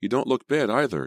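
high, upbeat encouragement; trying to sound cheerful. A narrator's reading. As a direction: keep it chirpy to reassure her. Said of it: "trying to sound cheerful".

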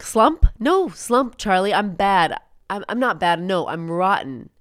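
imitating Frank's outburst. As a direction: throw the words back like a bitter old soldier. Frank's angry outburst in retelling.

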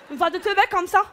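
lightly put-on dim-girl voice; airhead voice. Shown as a demonstration. Comedian showing the audience a teubé voice, lightly put on. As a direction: demonstrate a dumb-sounding michto voice. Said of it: "avec une voix de teubé".

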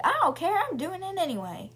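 defiant. Retold or imitated. Girl insists defiantly.

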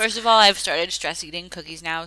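chewing while talking; mouth full. Real, not acted. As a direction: talk through a mouthful of cookie. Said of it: "Sorry, I'm chewing".

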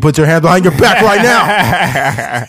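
loud laughing cop order; barking police commands. Pretend. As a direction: bark the arrest order, laughing. Mock arrest in weed bust.

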